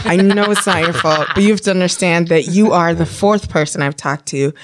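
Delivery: acted backpedaling apology, back down in pitch; apologizing after outburst. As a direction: apologize earnestly to the agent. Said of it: "a brief moment where I lose it".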